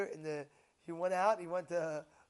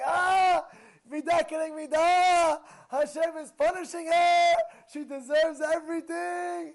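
high, loud gloating voice; mocking the father; 10 semitones higher, 13 dB louder, slower than usual. Rabbi imitates the father gloating over his punished wife. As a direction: sneer it out, imitating a smug father.

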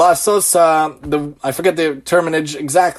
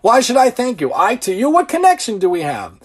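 selfish voice; 6 semitones higher than usual. Retold or imitated. Voicing a selfish person.

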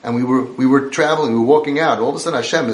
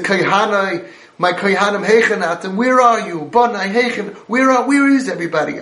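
put-on raised, pleading cry for lost children; 5 semitones higher than usual. Hashem crying out to his lost children, pleading. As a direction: call out in grief, searching for them. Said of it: "Hashem cried out".

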